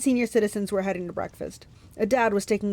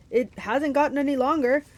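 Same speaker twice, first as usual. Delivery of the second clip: raised-pitch monster grumble; a hint of an impatient monster; complaining monster; 6 semitones higher, 3 dB louder than usual. A narrator's reading. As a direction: object as a suspicious monster. Monster quarrels with disguised Grover.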